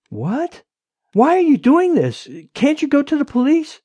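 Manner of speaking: high, distressed pleading; tearful. A narrator's reading. Wife begging her husband to go to police, tearful. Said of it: "She was crying on the other end".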